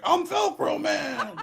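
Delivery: high, slow, hammed-up hero shout; mock superhero cry. Retelling a silly TV opener, in a hammed-up hero shout. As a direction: ham up a goofy superhero announcing himself. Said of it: "and he's like".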